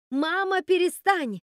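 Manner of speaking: high desperate shout; крик. Acted. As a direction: scream at mother to stop. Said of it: "закричала она". (кричит матери, чтобы та перестала)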